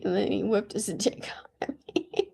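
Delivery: hushed, breathy confession; whispered reveal. Real, not acted. Telling friends the bus moment in a whisper. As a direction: drop the shocker in a whisper. Shocking reveal dropped low.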